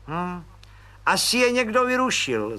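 high, bright-eyed little cop; light up with a sudden idea; beaming realization. Acted. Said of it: "zazářil pan Pištora v náhlém osvícení".

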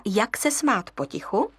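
ordinary delivery

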